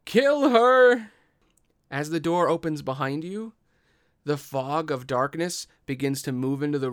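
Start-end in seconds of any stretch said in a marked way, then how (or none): 0.0-1.1 much higher, loud shriek of an order; enraged command. Acted. The furious pseudo-dragon orders its minions, screaming. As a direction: scream the kill order in a rage. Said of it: "it points at you, and it says".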